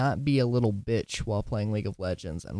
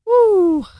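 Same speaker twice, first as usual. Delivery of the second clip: very high, very loud whoop; excited whoop; 13 dB louder than usual. Real, not acted. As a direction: let out a wild cheer. Sudden whoop.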